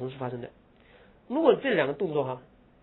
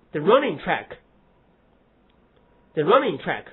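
said twice, very slowly; slow and deliberate; 5 dB louder, much slower than usual. Shown as a demonstration. Teacher repeating the phrase slowly for students. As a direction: spell out the running track slowly for the class. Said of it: "跟那个run之间有逻辑关系吗".

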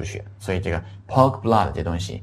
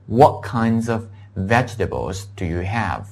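slow model sentence; slower than usual. Shown as a demonstration.

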